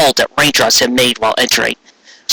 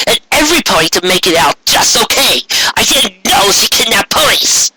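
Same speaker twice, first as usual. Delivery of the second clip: higher, pleading Trixie voice; desperate explanation; 6 semitones higher than usual. Acted. Trixie explaining herself to Raindrops, higher earnest plea. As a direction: talk fast to be believed.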